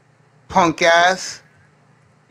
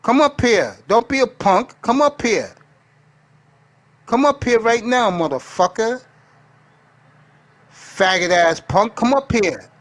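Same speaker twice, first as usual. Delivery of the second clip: yelling across the room; 5 semitones higher than usual. Real, not acted. Streamer shouting challenge at chatter.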